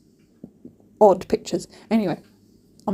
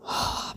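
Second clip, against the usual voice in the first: quiet breathy exhale; soft sigh; 10 dB quieter than usual. Real, not acted. Recalling the embarrassing moment.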